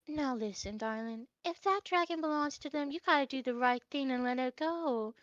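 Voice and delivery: put-on sigh, then counsel the child quietly; gentle life lesson. Lady turns to Mimi to teach, gently lecturing. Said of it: "going on a drawl about".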